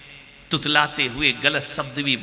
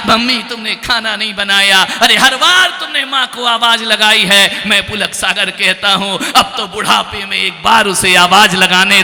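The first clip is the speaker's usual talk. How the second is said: raised, driving exhortation; forceful preaching; 8 semitones higher, 9 dB louder than usual. Real, not acted. Preacher reproaches sons who always called on mother, forceful exhortation. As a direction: press the crowd to think.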